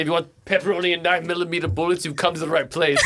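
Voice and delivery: lightly put-on Austrian accent; jokey Austrian-accented sales pitch breaking into laughter; bad Arnold accent. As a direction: imitate Arnold's answering machine, amused. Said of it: "I got a bad Arnold accent".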